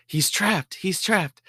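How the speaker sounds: cornering a raccoon in the kitchen, frantic high yelp; panicked. Retold or imitated. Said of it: "And I'm freaking out".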